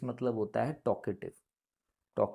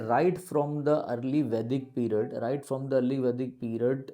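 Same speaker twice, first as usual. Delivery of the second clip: slow read-aloud; 3 dB louder, much slower than usual. Shown as a demonstration. Reading passage aloud slowly.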